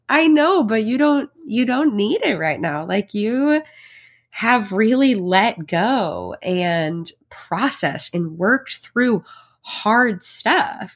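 a light take on a soothing therapist; imitating her therapist. Quoting therapist's reassurance.

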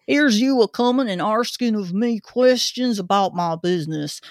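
put-on gruff old Cockney zookeeper; Cockney accent. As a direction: grumble it like a London keeper. Zookeeper reads in character.

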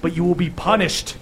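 a lightly booming, solemn pronouncement. Acted. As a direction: proclaim it like a stern deity. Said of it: "continues with a booming voice and goes".

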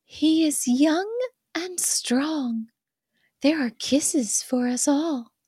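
high, little doll voice; sing-song like a tiny toy doll; tiny pocket doll voice. Acted. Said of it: "it's the tiny pocket doll voice".

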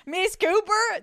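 high, drawn-out slip into Texas; accidental Texas accent. Acted. Waiter addresses a guest, botched into Texas accent. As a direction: attempt British but land in a Texas accent. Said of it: "That's a Texas accent".

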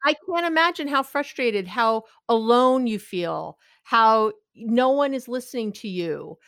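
empathize with the CEO; acknowledging frustration. Shown as a demonstration. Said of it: "You acknowledge your frustration".

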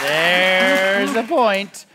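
milk the award, very slow; slow drawn-out. Acted. Host re-awards the point to the panel, slow and drawn out. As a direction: stretch every word out slowly.

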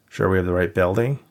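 dry, mildly sarcastic question. Acted. Dave teasing Jennifer at the locked stage door, mildly sarcastic. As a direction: needle her with it. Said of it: "Dave asked sarcastically".

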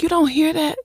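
insistent question. Retold or imitated. Insisting husband hear the noise.

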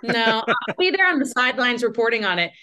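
reporter voice. Shown as a demonstration. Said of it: "drop into reporter voice".

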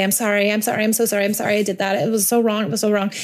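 rushed string of sorries; quick, repetitive over-apologizing; hurried, get-it-done apology. Acted. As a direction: rattle off apologies to be done with them. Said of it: "we just have to get it done".

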